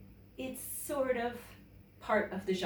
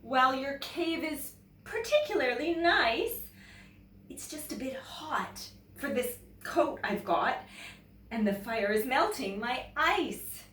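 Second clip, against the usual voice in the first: politely explaining, higher voice; polite polar bear; 5 semitones higher than usual. Acted. Polar bear explaining the cave is too hot, polite. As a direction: gently turn down the cave. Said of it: "he said".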